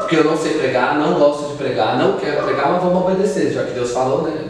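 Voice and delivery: sarcastic, grudging preacher; mild mocking defiance from the pulpit. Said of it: "debochado assim em cima do púlpito".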